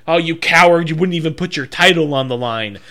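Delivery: mildly yelled imitation of a wrestler's jeer; imitated yelling. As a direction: call someone out, half-yelled in imitation. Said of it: "was yelling at him".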